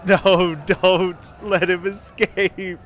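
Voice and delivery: high, loud and drawn out; anguished shout. Real, not acted. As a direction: wail it as he gets away. Enemy escaping again.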